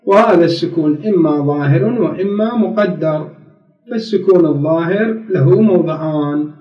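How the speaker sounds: slow, measured classical Arabic; formal text reading. Real, not acted. Teacher reads about sukun to students, formal reading. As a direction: read it out deliberately from the book. Reads the grammar book aloud.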